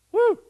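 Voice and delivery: loud, high "woo"; excited whoop. Real, not acted. Preacher carried away by his own sermon, excited whoop. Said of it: "Excuse me for getting excited".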